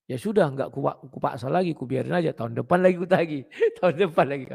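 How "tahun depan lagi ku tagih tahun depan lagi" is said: laughing. Real, not acted. Laughing at own joke.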